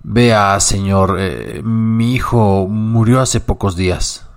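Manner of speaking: very slow, halting, hushed grief; grieving murmur. Acted. Old cabman telling passenger his son died, slow sad murmur. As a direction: barely get the words out.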